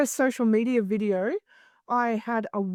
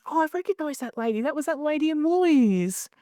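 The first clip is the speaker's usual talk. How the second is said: sudden recognition; 5 semitones higher than usual. Retold or imitated. Acts out suddenly recognizing the woman.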